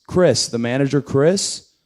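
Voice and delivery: mock confident bluff, trying another name; bluffing name-drop. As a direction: guess a name and sell it. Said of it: "He goes".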